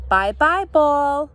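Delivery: put-on mild baby scream. A narrator's reading. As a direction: call it out like an upset baby, short of a scream. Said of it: "Baby Joshua screamed".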